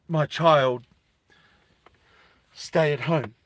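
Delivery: a mother's acted plea, repeated with pauses; mild desperation, halting appeal; pleading mother. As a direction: lightly play a mum begging for her child.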